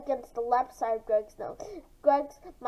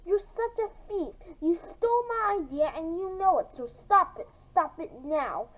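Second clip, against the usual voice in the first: through clenched teeth; 3 semitones higher than usual. Acted. Greg accusing Mara of stealing his idea, angry and gritted. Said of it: "through clenched teeth he said".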